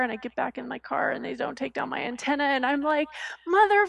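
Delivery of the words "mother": high, loud yell at the car wash crew; retold scream. Scream at car wash staff who ignored her antenna. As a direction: yell the word at the workers. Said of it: "like, screaming as I".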